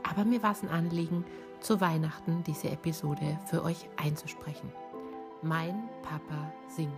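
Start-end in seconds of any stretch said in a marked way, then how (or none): 0.1-4.7 slightly raspy, hoarse from bronchitis; a light rasp after being ill. Real, not acted. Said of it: "meine leichte Reibeisenstimme".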